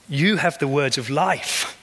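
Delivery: gentle, slow statement of faith; sincere. Retold or imitated. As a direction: say it simply, as a settled truth. Peter's quiet answer.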